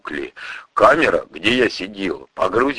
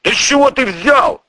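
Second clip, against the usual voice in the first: high, loud, indignant snap; flaring up; 4 dB louder than usual. Acted. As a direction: shoot up in outrage. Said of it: "взвился огнемёт".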